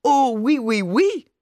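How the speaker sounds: hammed-up high, loud French queen; mock queen. Father mocks the mother's French airs, mock queen voice. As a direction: play a prissy queen waving a towel. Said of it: "wie eine Königin".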